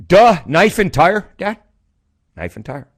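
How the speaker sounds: put-on kid voice. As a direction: say it like a kid stating the obvious. Son voiced high.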